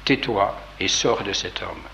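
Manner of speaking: mildly menacing, measured authority. Acted. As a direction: order it slowly, with understated threat. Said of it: "lui dit d'un ton menaçant".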